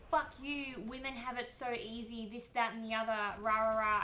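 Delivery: imitating a ranting troll shouting her down; mock angry yell. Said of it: "yelling at me".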